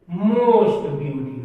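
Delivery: very slow, word by word; drawn-out teacher dictation. Shown as a demonstration. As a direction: spell it out slowly as you write on the board. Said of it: "फिर superlative क्या हो जाएगा".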